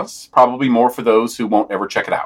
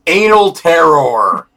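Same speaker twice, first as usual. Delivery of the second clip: ominous title read; 3 dB louder, slower than usual. Pretend. Hosts hype a gleefully lurid title.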